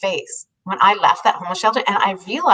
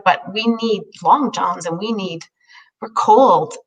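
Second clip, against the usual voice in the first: a hint of a slow, earnest homeless man; slow it down as the man asking; lightly voiced slow man; slower than usual. Homeless man asks for long johns.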